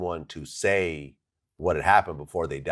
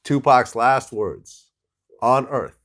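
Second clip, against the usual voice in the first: much higher and louder, slow; hyped-up retelling to a laughing friend; emphatic disbelief; 8 semitones higher, 9 dB louder, much slower than usual. Real, not acted. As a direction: stretch out "Tupac's last words" in awe. Repeating for emphasis, incredulous.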